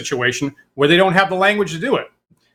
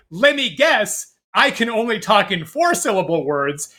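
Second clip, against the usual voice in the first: smart-aleck quip; 3 semitones higher than usual. Retold or imitated. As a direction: lean into the cheek, drawing out the first words. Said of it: "as a smart ass".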